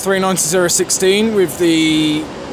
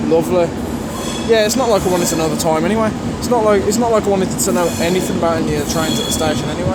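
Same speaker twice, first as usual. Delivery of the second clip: sarcastic; much faster than usual. Real, not acted. Mocking the broken station Wi-Fi.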